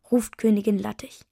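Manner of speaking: usual speaking voice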